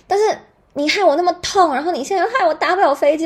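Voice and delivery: high, loud and quickening complaint; fast, loud, high-pitched retold fury; angry rant. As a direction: blast him for ruining the trip. Continuing rant at doctor.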